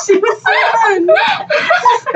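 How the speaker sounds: laughing. Retold or imitated. Mocking Betty, high laughing.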